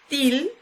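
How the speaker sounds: emphatic, lengthened "til"; stressed syllable. Shown as a demonstration. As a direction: say "til" slowly, with the voice leaning on it. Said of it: "se pronuncia con mayor intensidad".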